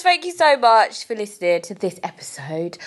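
breaking, whispery fake-cry thanks; hammed-up crying gratitude; mock tearful. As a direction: pretend to choke up while thanking. Emotional sign-off thanks.

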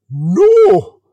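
long, loud, high cry; horrified scream. A narrator's reading. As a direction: scream it out in horror. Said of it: "The prince screamed".

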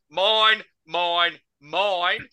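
mild mock scream of "mine"; retold scream. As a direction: imitate a bowler calling for the catch. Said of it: "who is screaming through his fucking follow through".

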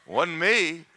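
laughing, whiny denial; hammed-up denial; mock excuse. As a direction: play the guilty kid making excuses. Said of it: "don't yield to it and say".

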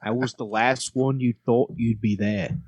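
steady Australian lyric recital; country words with Australian vowels; Australian accent. Shown as a demonstration. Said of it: "We'll do it in Australian".

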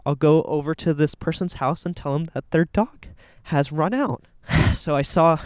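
slightly out of breath from walking. Real, not acted. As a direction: talk while winded from walking. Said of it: "I'm kinda out of breath".

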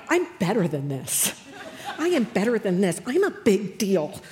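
lightly indignant, low-pitched grumble; mock self-important. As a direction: imitate yourself grumbling that you deserve better. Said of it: "I'm giving you my finest moments".

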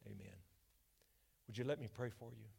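ordinary talk, nothing marked

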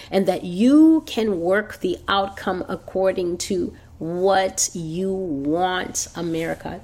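slow, weighty preaching with stretched key words; deliberate, emphatic prophet's declaration; prophetic rebuke. Acted. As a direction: pronounce judgment on a nation, dwelling on each point. Preaches God's rebuke to America.

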